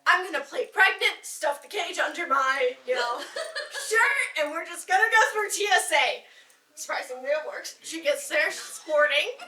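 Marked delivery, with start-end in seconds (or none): 0.1-6.2 louder, giggly scheming plan; excited girl laughing through her scheme. Retold or imitated. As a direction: hatch the plan with barely held laughter. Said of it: "so she's like".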